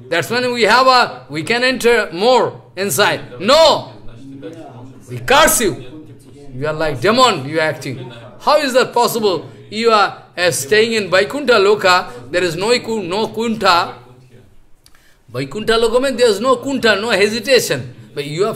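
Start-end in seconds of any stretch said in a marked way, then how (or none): 3.4-13.9 angry curse. Retold or imitated. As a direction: lay down the curse with force. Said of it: "Chatussan become very angry".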